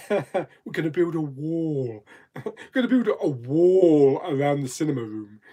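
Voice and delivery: hams up a campaign promise through giggles; mock Donald Trump. Retrying the requested president voice for his chat, laughing mock impression. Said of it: "That don't sound like Donald Trump".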